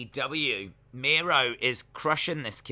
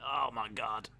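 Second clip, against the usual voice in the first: mock crowd shout. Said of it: "And everyone goes".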